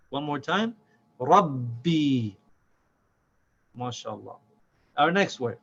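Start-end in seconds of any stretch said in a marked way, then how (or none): 1.2-2.3 RABBI with a doubled b, long falling ee; no break. Shown as a demonstration. Teacher repeating it one more time, unbroken. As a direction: run RAB into BI in RABBI without stopping. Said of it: "No break there".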